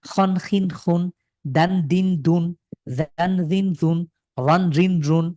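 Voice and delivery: slow teacher drill of খন খিন খুন, each syllable drawn out. Shown as a demonstration. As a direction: drill each tanween ending slowly and clearly. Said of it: "সবাই পড়েন".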